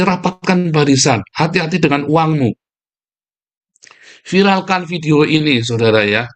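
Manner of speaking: ordinary talk, nothing marked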